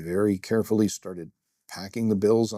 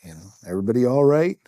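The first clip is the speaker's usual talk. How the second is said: calling out; 2 semitones higher, 7 dB louder, faster than usual. Retold or imitated. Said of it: "look around and go".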